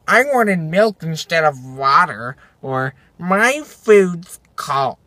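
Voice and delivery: lightly voiced whiny customer, drawn out; mock a petty complaint, dragging the words; imitating a fussy diner, slowly; complaining customer. Mimics a complaining rude customer.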